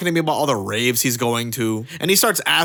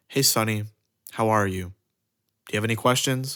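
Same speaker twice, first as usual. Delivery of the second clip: mock grave, somber tone; 4 semitones lower, 5 dB quieter than usual. Retelling the head manager's greeting and question: imitating a somber tone. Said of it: "in kind of a somber tone".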